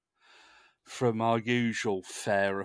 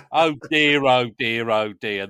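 loud mock lament, falling in pitch; mock dismay; 10 dB louder, slower than usual.

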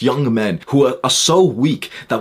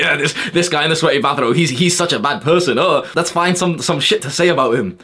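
mock hater; 4 semitones higher than usual. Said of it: "watching this, like".

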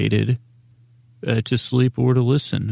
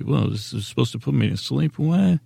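mock sceptical listener; 2 semitones higher than usual. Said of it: "if you see".

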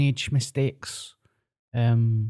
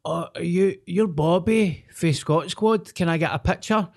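put-on higher, eager voice of a starstruck young guy; lightly voiced fan, suddenly thrilled; excited fan voice; 6 semitones higher than usual. Young guy spotting a TV face, a touch excited.

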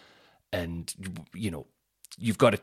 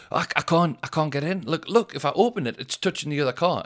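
high mock fussy old woman voice; mock old lady; 6 semitones higher than usual. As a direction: imitate the complaining old lady, pitched up.

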